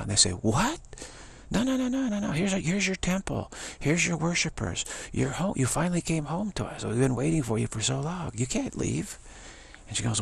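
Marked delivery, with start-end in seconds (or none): 0.3-9.2 high, pleading voice that climbs steeply on the no's; pleading devotees. Retold or imitated. Devotees begging their goddess to stay, high and pleading. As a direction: beg her not to go, pitched well up.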